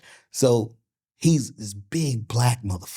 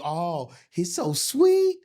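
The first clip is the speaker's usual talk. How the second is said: mock sweet coo; 5 semitones higher, 4 dB louder, much slower than usual. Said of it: "they go".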